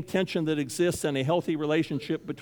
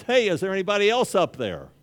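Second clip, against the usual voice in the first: hopeful shout for someone else; 6 semitones higher, 5 dB louder than usual. Acted. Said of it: "the man goes".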